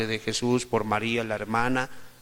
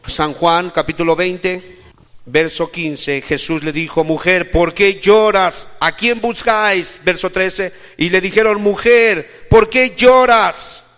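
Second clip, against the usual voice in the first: very loud, raised preaching voice; forceful scripture declamation; 8 semitones higher, 15 dB louder, slower than usual. Acted. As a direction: proclaim the verse at full volume, drawing out the questions. (lectura bíblica proclamada a todo pulmón)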